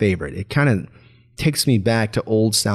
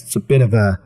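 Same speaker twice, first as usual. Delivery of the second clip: flanger effect. Shown as a demonstration. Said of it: "altering the tone of my voice".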